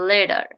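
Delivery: letter as "leda", T like D; flap T. Shown as a demonstration. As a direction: tap the T in letter. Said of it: "It will be".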